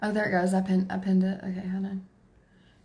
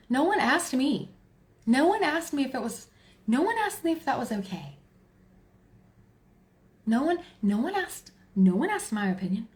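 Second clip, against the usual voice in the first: mock indignation; 4 semitones higher than usual. Parent protesting a daughter turning twenty, mock indignant. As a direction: protest with big swoops on "no one".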